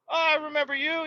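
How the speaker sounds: squeaky hostess recognizing him; high falsetto waitress. Retold or imitated. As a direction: play the waitress greeting a regular, way up high. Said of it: "they're like".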